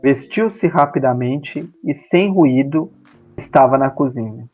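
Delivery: measured literary reading aloud; story narration. A narrator's reading. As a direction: read the short story in neat, separated phrases. Lê um conto em voz alta. (leitura pausada de conto literário)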